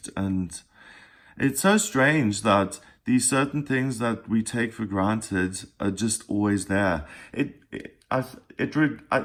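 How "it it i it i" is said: slow, halting stutter on "it" and "I". Speaker struggling to get the words out today, stuttering. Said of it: "I'm stuttering like crazy today".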